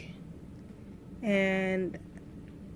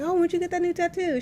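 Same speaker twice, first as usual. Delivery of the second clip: much higher, dreamy asking voice; imitating her drugged self; 9 semitones higher than usual. Drugged new mother asking her friend about a tattoo, high and dreamy. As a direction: play her woozy, hallucinating self asking brightly. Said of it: "I was like".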